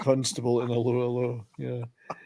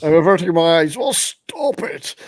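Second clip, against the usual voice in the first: exasperated quote; 5 dB louder than usual. Retold or imitated. Quotes exasperated film character.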